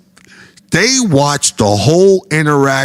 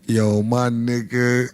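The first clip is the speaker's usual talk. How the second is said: ordinary delivery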